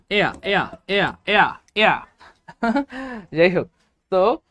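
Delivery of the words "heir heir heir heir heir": "এয়া" with silent h, repeated; pronunciation demo. Shown as a demonstration. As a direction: say "এয়া" starting on the vowel, no h sound. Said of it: "এটার উচ্চারণ আপনি Google-এ search দিলে দেখবেন এরকম". ("এয়া" হ ছাড়া, বারবার উচ্চারণ)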